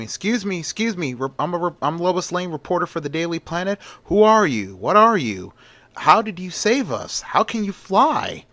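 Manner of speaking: high, pushy cries through the crowd; screaming. Acted. Lois forcing through the crowd to Superman, high excited shouting. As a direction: shove forward shouting questions.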